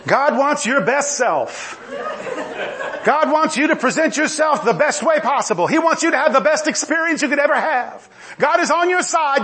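lightly mock the upbeat prosperity sermon; Joel Osteen imitation. Preacher mocking a TV evangelist with a hint of cheery uplift. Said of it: "I was trying to do a Joel Osteen imitation".

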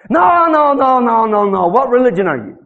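a hint of a pushy questioner; mock insistent. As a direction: press them for an answer.

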